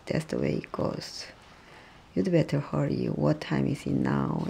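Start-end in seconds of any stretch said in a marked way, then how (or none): 0.0-1.2 whispered repeat. Shown as a demonstration.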